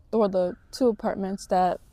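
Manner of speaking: words broken by a burp. Real, not acted. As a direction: talk through a burp. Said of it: "excuse me, I'm burping a lot".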